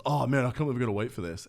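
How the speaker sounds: quick, mildly voiced retold grumbling; kicking off. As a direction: imitate an impatient customer moaning. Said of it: "this guy was just kicking off".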